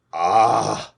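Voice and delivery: groan. A narrator's reading. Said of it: "groaned Aramis".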